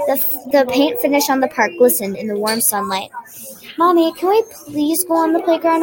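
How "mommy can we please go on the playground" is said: put-on higher, mildly excited child's plea; exclaiming plea. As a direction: beg mom with eager emphasis. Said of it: "I exclaimed".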